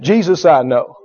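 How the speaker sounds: low, measured demon retort; demon speaking. Acted. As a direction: pause between each cool statement. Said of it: "He said".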